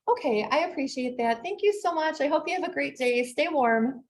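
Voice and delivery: sweet as pie on the phone; sugary sweet. Acted. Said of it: "like, so sugary sweet".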